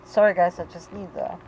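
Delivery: apologising through tears, voice fading; real crying, trailing to almost nothing; broken down crying. Real, not acted. Mother apologising to viewers while crying. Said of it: "I broke down".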